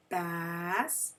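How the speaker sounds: "bass" with a held short A, as in basket. Shown as a demonstration. Teacher sounding out the first syllable, short A in "bass". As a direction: stretch the short a of "bass", rhyming with pass. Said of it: "a short A".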